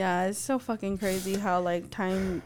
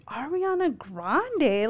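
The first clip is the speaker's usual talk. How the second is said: drawn-out, swooping disbelieving question; stretched-out retold disbelief; incredulous; 4 semitones higher, much slower than usual. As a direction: repeat the name slowly, as if baffled. Retold disbelief at daughter's perfume request.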